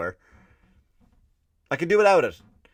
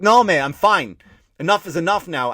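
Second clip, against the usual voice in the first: louder firm refusal; firm aggressive no; 4 semitones higher, 6 dB louder than usual. Retold or imitated. Comedian telling off a pushy waiter, firm and louder. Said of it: "you have to kinda get aggressive".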